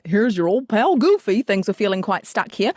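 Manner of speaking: lightly voiced Goofy with plop sounds; a hint of Goofy, plopping cheeks; playful Goofy with cheek plops; Goofy impression. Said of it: "the first time it was like".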